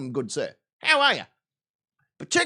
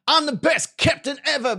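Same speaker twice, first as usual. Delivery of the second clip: proclaimed; 3 semitones higher than usual. Shown as a demonstration. Captain boasting to his stream, grandly proclaiming. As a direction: trumpet it as a boast. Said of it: "see if I can turn that into a song".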